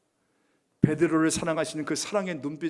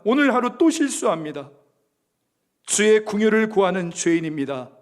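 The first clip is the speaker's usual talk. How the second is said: pleading confession; 2 semitones higher, 7 dB louder than usual. Pretend. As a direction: cry out to the Lord in weakness. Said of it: "저는 이렇게 고백했을 것 같아요". (주께 크게 부르짖는 애통한 고백)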